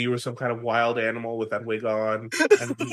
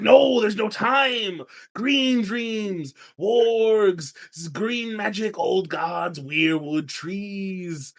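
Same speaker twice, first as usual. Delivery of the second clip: higher, louder, urgent listing; urgent Jojen; 6 semitones higher, 4 dB louder, much slower than usual. Retold or imitated. Jojen urging Bran, no time to waste, high and urgent. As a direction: rattle off the magic, urgently. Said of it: "Jojen's like".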